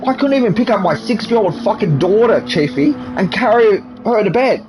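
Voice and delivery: sustained high-pitched angry ranting. Real, not acted. Man rants to interviewer about his back, high and angry. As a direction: vent it all, voice held up high.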